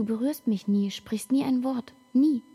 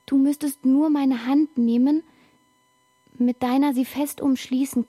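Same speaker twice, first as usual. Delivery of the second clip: loud; 3 semitones higher, 5 dB louder than usual. Acted. Loud urging about hand.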